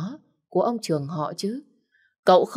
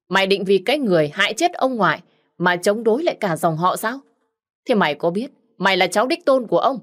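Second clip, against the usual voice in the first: angry rebuke; 3 semitones higher than usual. Acted. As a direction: tear into him for defying the family. Cousin rebuking Hưng angrily. (mắng giận dữ, giọng cao và to)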